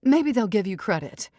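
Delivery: haughty mother fussing over daughter; dramatic society mother. Acted. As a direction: sweep in like a grand matriarch. Mrs Evers voice.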